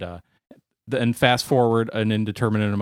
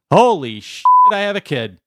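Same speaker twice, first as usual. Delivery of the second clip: shocked shout; 6 semitones higher, 6 dB louder than usual. Acted. Vader realizing.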